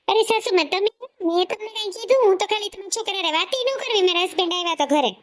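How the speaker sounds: high, sugary feigned innocence; mock-innocent daughter-in-law. Wife answering her mother-in-law, mock sweet and high.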